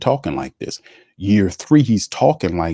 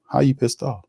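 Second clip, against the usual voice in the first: higher, mocking disbelief; incredulous questions; 5 semitones higher than usual. Real, not acted. Host challenging the coach's words in mock disbelief. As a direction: fire back in disbelief at the coach.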